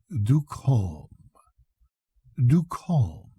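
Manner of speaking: warning. Acted. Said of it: "He lifted a warning forefinger".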